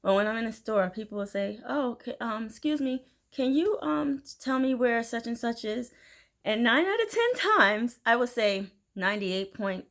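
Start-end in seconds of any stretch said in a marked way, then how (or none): 1.7-5.9 higher, hesitant shopper asking for help; tentative, polite "excuse me" voice, pitched up; polite request. Acted. Shopper stopping someone in a store to ask where an item is, polite and hesitant.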